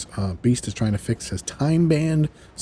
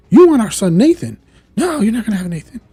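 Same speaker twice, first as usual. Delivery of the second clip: loud, high-pitched acted refusal; imitated fierce protest, pitched up; defiant outrage; 12 semitones higher, 8 dB louder than usual. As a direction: confront and refuse the villain.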